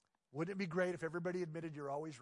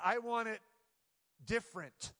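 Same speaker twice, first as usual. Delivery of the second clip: put-on higher and louder, childish insistence; mock demanding whine; 5 semitones higher, 3 dB louder than usual. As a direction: demand it like a spoiled kid. Mocking the demanding self.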